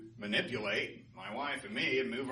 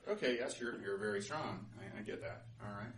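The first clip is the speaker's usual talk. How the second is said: humouring; 4 semitones lower, 4 dB quieter than usual. Acted. Sun humours the boasting wind.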